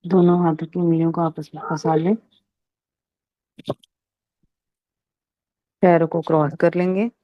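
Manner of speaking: calm instructions with long pauses; guided meditation. Real, not acted. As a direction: settle the group gently into meditation, leaving long silences. Guides group into meditation posture. (ध्यान कराने का शांत, ठहरा हुआ अंदाज़)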